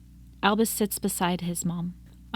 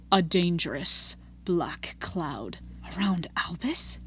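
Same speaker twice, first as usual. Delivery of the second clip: hushed whisper; 4 semitones lower, 5 dB quieter, slower than usual. Acted. Ominous prophecy, hushed reply.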